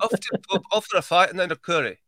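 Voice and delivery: imitating a Yorkshire accent, coming out posh; posh Yorkshire attempt. Host copies his co-host's phrase, Yorkshire accent gone posh. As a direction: try Yorkshire and land on posh English. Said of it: "you got really posh again".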